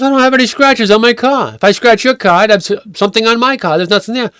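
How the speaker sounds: high-pitched retold denial; protesting innocence. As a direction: imitate an indignant man defending himself. Man protests his innocence.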